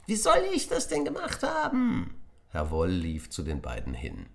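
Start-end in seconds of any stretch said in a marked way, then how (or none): 0.1-2.1 put-on high, loud indignant child voice; boy shouting back defensively; Willi protesting. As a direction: protest your innocence loudly. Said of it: "rief Willi".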